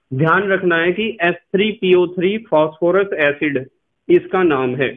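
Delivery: ordinary talk, nothing marked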